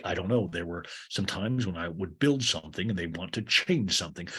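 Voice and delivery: lightly voiced low, grumbling owner; a hint of a mean boss, kept low; Greg. Mean owner complains to Lisa, lightly voiced low grumble.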